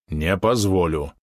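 slow and firm; firm refusal. Acted. Oleg refuses the wounded retainer, slow and firm. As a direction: refuse flatly, no debate. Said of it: "твёрдо заявил тот".

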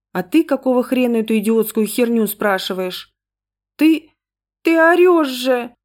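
put-on high, loud little girl's voice; upset child. A narrator's reading. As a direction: protest shrilly like an arguing daughter. Daughter yells back at mother.

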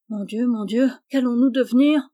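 mildly plaintive, rising lament; tearful whine. A narrator's reading. Jeannot despairing before the three doors, mildly tearful. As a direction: wail a little, with a touch of tears. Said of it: "de son ton larmoyant".

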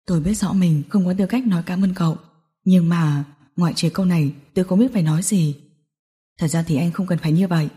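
low, softened male character voice; người đàn ông trầm lặng, biết ơn. A narrator's reading. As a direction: speak low and restrained, owning a debt of thanks. (giọng nam trầm, nhẹ, biết ơn)

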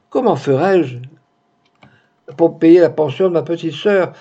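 worried maid's anxious outburst; panicked protest. Acted. Maid panicking about losing her place.

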